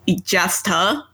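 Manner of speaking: Ijasta said with a T sound, as misread; mispronouncing Ijasta with a stray T; wrong pronunciation. Retold or imitated. Reader admits misreading the name, wrong Ijasta. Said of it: "There is no T in that word".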